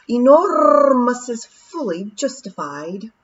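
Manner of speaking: William's measured voice. Acted. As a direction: pronounce it like a scholar. William answering Rob.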